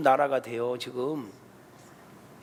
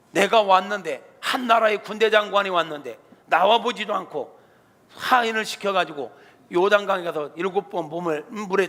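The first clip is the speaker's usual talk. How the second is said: 화난 장군; 2 semitones higher, 3 dB louder than usual. Acted. 나아만이 화내며 하는 말.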